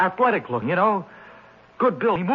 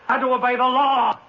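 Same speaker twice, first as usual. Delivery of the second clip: fanatical shout; 3 semitones higher than usual. Acted. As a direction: preach it like a zealot. Defendant proclaiming in frenzy.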